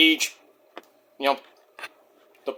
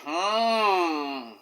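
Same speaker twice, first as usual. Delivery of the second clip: Don Callis hum; 9 dB quieter than usual. Retold or imitated. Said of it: "Don Callis like".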